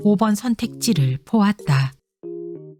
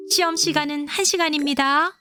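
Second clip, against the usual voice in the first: teacher voice; 6 semitones higher than usual. A narrator's reading. Teacher announces exam time.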